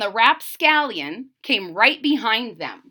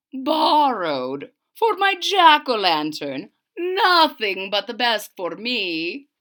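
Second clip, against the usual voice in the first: put-on slow old wizard. Wizard replies.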